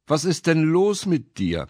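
full of pity; compassionate. A narrator's reading. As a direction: ask with gentle sympathy for a child. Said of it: "erkundigte sich der Hosenträger voller Mitleid".

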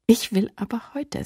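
a mild, stubborn whisper. Acted. Lilli insisting to Flosse on going today, stubborn whisper. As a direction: insist under your breath like a stubborn child. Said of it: "sagte Lilli störrisch".

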